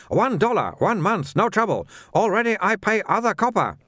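high-pitched trader in broken English; protesting little shopkeeper. A narrator's reading. Shopkeeper protests to a watchman about paying, high indignant voice.

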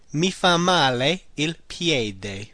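slow, deliberate repeat. Shown as a demonstration. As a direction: repeat it slowly for learners. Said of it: "The foot does me bad".

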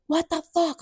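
very high, strained mock scream; retold screaming. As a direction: imitate his scream without full volume. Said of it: "I could hear him screaming at him".

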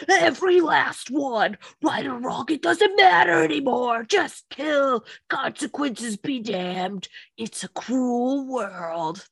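a touch of a grim raging Titan, slowed at the end; Aaron impression. Podcast host doing Aaron's Titan vow for her cohost, lightly voiced. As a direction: mildly growl out vows of vengeance. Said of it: "That was my Aaron impression".

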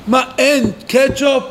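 acted child's protest; complaining child. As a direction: whine like a child missing ketchup. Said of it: "ילד אחד עם זה שאין צ'יפס או אין קטשופ".

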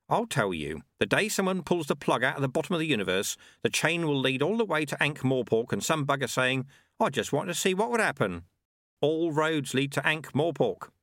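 worldly-wise sweeper holding forth; Lutze. Acted. Sweeper telling lad where all roads lead, worldly-wise.

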